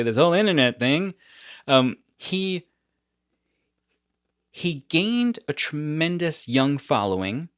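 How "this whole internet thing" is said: quick, dry, quoted Norm phrase; Norm's phrasing. Retold or imitated. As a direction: toss it off like Norm. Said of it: "something he would probably say".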